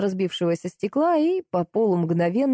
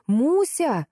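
yell; 7 semitones higher than usual. A narrator's reading. The narrator calls the puppy in the storm, yelling. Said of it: "заорала я".

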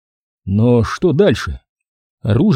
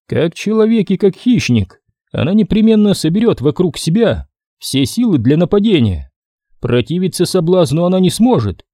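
slightly raised, measured character voice; lightly voiced Penny Royal; 5 semitones higher than usual. Penny Royal predicts Isobel's attack to Blite, lightly voiced, higher. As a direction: explain it evenly, pitched a little higher.

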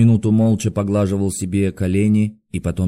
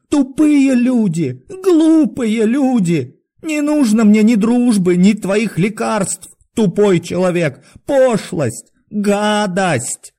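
high, drawn-out raging yells; furious shouting; 12 semitones higher, 5 dB louder, slower than usual. A narrator's reading. Doctor raging at his visitors, furious shouting. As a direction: hurl insults in a frenzied high voice. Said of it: "продолжал кричать Андрей Ефимович".

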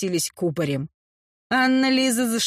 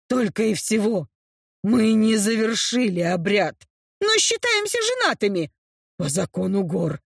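low apologetic orc; 3 semitones lower than usual. Acted. Orc Gron apologises, lower voice.

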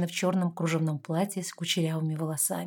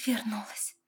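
echo; 4 semitones higher, 6 dB quieter, slower than usual. A narrator's reading. Daughter echoing mother's word.

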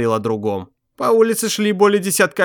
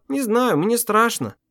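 high, small frightened voice; scared; 8 semitones higher, slower than usual. A narrator's reading. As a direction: let the fear lift her voice. Frightened wife answers.

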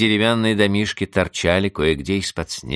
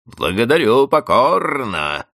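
sarcastic hiss, higher and louder; 8 semitones higher, 5 dB louder, slower than usual. A narrator's reading. Angry housekeeper to Vanda, sarcastic hiss. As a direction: spit out a venomous thanks. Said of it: "зашипела Анна Григорьевна".

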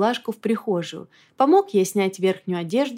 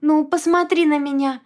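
pleading; 8 semitones higher, 4 dB louder than usual. A narrator's reading. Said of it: "попросила жалостливо".

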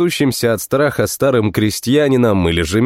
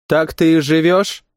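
soft question; 5 semitones higher than usual. Acted. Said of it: "Вопрос был мягкий".

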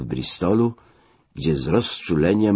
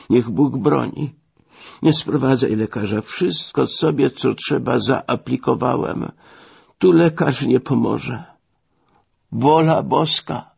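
ailing man; 8 semitones higher than usual. Acted. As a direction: draw it out high, like a resigned invalid. Gravely sick man refuses a doctor. (wysoki, powolny głos chorego)

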